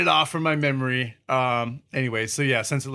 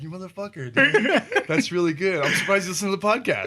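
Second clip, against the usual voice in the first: laughing mock insult; 5 semitones higher than usual. Retold reaction, laughing.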